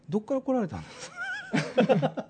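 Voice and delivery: slow, polite host asking; customer service voice. Pretend. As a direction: put on a courteous bar-host manner. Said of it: "ちょっと接客っぽくやってみて". (接客っぽい丁寧な口調)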